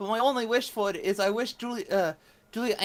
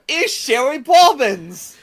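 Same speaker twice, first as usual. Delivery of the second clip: laughing; 4 semitones higher, 10 dB louder, slower than usual. Real, not acted. Amused at the name.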